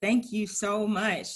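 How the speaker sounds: moved, slow and drawn out; holding back tears. Real, not acted. Host thanks the poet after her poem, trying not to cry. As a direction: hold back tears while giving thanks. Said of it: "trying not to cry".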